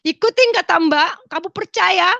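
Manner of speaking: high, insistent retold urging; urgent exhortation. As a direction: press a relative to believe.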